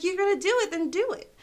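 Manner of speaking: high, loud mimicked challenge; retold defiant dare. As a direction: dare him right back, pitch up. Retold supervisor daring him back.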